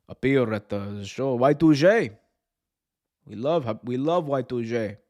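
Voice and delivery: halting, polite put-on Saudi accent; mock Saudi accent, earnest request. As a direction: do a hesitant Saudi official's accent. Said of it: "The Saudis, you know, they're gonna be like".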